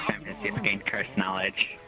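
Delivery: unvoiced hushed announcement; whispering. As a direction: breathe it out as a secret.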